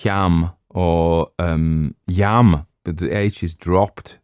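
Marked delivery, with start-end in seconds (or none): 0.0-0.5 "llam" for home, H dropped, short flat a; Cumbrian dialect word. Shown as a demonstration. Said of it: "some of the words like". 2.1-2.7 "yam" for home, H dropped, said with a y; Cumbrian dialect word. Shown as a demonstration. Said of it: "some of the words like".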